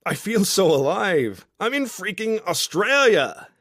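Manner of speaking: high, loud, drawn-out whoop of joy; elated holler, stretching the words; exuberant shout. A narrator's reading. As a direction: shout it to the whole beach, thrilled. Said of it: "he shouts".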